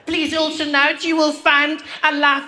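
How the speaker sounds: high, slow, formal cabin announcement; flight attendant. Retold or imitated. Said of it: "that woman took the phone".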